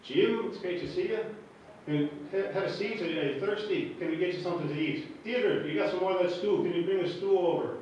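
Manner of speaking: lightly imitated Irish brogue; fussing Irish host, mild accent. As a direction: welcome a guest with a hint of Irish lilt. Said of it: "they're traditional Irish".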